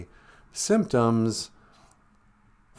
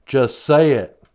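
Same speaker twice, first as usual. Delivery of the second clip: pushy demand; 6 dB louder, slower than usual. Acted. Caller demands repetition.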